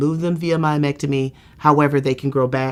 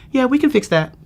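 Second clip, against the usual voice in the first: easy, unbothered doctor's reply, pitched up; calm reassurance; 9 semitones higher, 4 dB louder than usual. Retold or imitated. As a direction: toss it off like it's nothing. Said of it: "Doctor McLuce is sitting there really calm".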